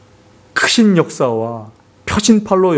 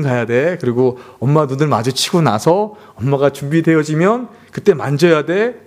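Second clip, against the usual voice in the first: put-on explaining to kids; 4 semitones lower than usual. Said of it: "아이들에게 일렀습니다".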